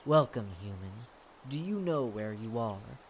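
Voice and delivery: slightly deepened, stately lord; deep voice. Acted. The lord welcomes a human to his domain, deep voice. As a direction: greet the stranger in a measured deep voice. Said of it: "Deep voice".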